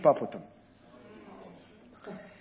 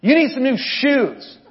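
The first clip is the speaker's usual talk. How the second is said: imitating the stranger; 6 semitones higher, 4 dB louder, slower than usual. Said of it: "he goes".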